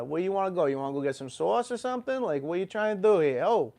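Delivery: put-on New York street talk; New York accent. Vlogger showing how a New Yorker should talk, mock New York accent. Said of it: "talking like I'm from New York".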